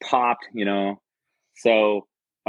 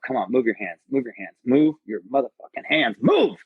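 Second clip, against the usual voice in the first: urging himself on. Retold or imitated. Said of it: "I kept telling myself".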